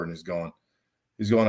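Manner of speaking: ordinary talk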